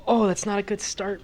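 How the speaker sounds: high, loud groan of dismay; real loud dismay at the dice. Real, not acted. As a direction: yelp at the bad roll. Player reacts to bad roll.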